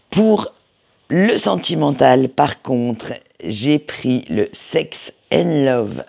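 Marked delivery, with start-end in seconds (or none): 4.5-6.0 English title read slowly with a French accent. Real, not acted. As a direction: say Sex and Love Oracle with a heavy French accent. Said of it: "excusez mon accent anglais". (titre anglais prononcé lentement avec un accent français)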